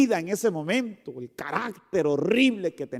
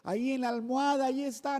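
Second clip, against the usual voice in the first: mock loving mother; 7 semitones higher, 7 dB quieter than usual. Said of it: "le grita amorosamente".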